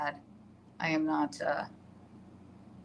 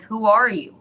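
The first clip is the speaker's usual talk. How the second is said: mock; 4 semitones higher, 10 dB louder than usual. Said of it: "He'll be like".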